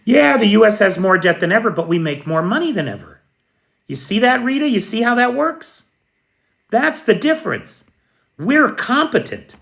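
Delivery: hammed-up self-satisfied brag, teasing Rita; mock smug boast. Mocking a smug official to Rita, high and quick.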